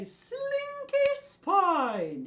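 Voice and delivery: very drawn-out high sing-song; Julia Child. Acted. Teacher giving the group a spine-dance phrase, high sing-song. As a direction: stretch it out high and swooping. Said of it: "in your best Julia Child voice".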